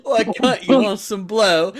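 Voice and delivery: high, hammed-up Cockney geezer; Cockney accent. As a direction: put on a rough-and-ready Cockney English accent. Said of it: "not a Cockney English accent".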